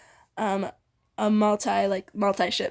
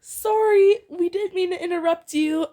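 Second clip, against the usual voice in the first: quick apology; 7 semitones higher, 4 dB louder than usual. A narrator's reading. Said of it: "had quickly apologized".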